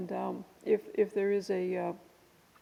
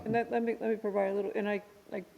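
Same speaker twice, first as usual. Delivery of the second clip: talking around a cough drop; words muddled by a lozenge in the mouth; mouth full; 3 semitones higher, 4 dB louder, faster than usual. Real, not acted. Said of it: "I have a cough drop in my mouth".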